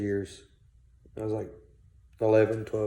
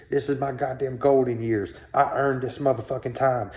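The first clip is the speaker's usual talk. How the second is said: put-on higher-pitched ranting old grandpa; mock the grandpa's bitter ranting; retold angry rant; 4 semitones higher than usual. Kid retelling his granddad's rant in the car: higher-pitched imitated anger.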